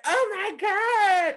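slow, high, stunned Oh my God; stunned friend. Retold or imitated. Friend watching the flirt, stunned high exclamation. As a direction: gasp it out in disbelief. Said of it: "my friend was like".

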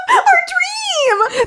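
very high, ecstatic squeal with laughter; hammed-up squeal of delight; super excited nuns. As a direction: shriek it like a wish come true. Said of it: "They're super excited".

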